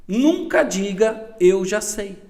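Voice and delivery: "Nunca diga, 'Eu já sei'" spelled out slowly, "Nunca" stretched and pushed up; slow emphatic motto. Shown as a demonstration. Boss quoting the company motto to the listener, slow and emphatic. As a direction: lay down the company rule word by word, leaning on "Nunca". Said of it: "uma frase dentro da minha empresa que eu mato ela do início".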